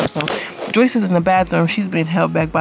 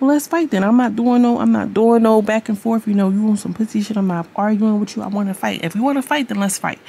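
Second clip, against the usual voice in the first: mock challenge to fight; 4 semitones higher than usual. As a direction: square up and dare him. Mac calling Duke out to fight.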